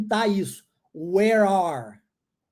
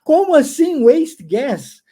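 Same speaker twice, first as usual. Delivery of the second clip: mock disbelief; 4 semitones higher, 4 dB louder than usual. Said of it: "vai falar assim".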